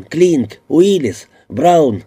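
loud high calls, one name after another; calling out names. A narrator's reading. Burns shouting for his missing detectives, loud calls.

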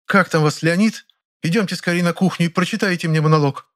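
put-on high, haughty older actress, irritated; voiced Ranevskaya. A narrator's reading. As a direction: lecture him with theatrical scorn. Ranevskaya figure voice. (высокий надменный голос Раневской, раздражённо)

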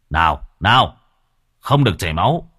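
scolding. Acted. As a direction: scold the corpse like a stubborn child. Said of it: "mà mắng".

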